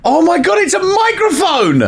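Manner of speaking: thrilled, high and bright squeal; overjoyed at the gift; excited. Real, not acted. Delighted by microphone gift.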